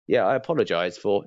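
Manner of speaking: curt, dismissive apology; rude apology. Shown as a demonstration. Trainer showing a careless caller's rude tone. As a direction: brush off the apology rudely. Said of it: "that sounds so much ruder".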